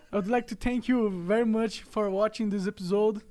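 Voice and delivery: put-on slow, careful English in Brazilian accent; Portuguese accent English. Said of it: "só sei falar isso de inglês".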